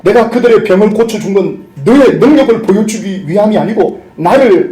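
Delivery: Jesus rebuking the healer, sternly; stern rebuke. Retold or imitated. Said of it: "그러면서 책망을 하는데".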